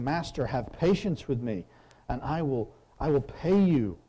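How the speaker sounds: lightly voiced desperate servant; begging servant. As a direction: plead with the master for time. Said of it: "You're just begging him".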